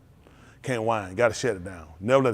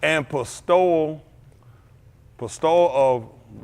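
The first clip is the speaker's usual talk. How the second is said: drawn-out reading; 2 semitones higher, much slower than usual. Acted. Reads definition slowly.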